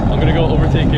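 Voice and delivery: high loud racing call; excited shout. Real, not acted. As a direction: yell it over the engine noise. Racing go-karts, thrilled.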